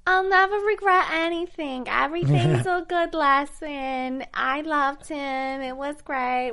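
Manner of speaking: high, slow mock Jersey accent. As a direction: play a reality star in Jersey accent. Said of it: "I really have to work on my Jersey accent".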